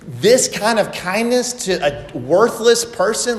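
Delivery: a stunned man who can't believe the kindness; shocked disbelief. Acted. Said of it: "He's, he's shocked".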